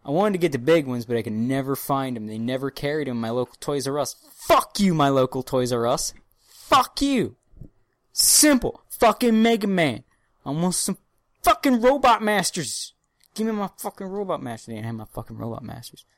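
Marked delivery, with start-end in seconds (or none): 4.3-16.1 pissed off. Retold or imitated. Podcaster cursing the local toy store over missing figures, pissed off. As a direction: rant with comic indignation, then let it sink.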